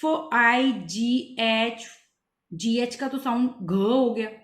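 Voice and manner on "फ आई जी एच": slow फ, आई, जी एच, each drawn out separately; halting phonics attempt at फ, आई, जी एच; phonic sounding out. Shown as a demonstration. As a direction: read फ, आई, जी एच sound by sound. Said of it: "phonic sounds के साथ पढ़ो".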